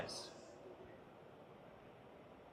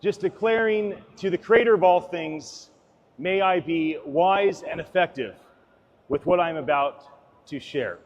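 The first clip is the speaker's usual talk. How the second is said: solemn prayer; 2 semitones lower, 3 dB quieter than usual. Real, not acted. Speaker prays to the creator before his talk, solemn and humble. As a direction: pray humbly, letting the voice drop away.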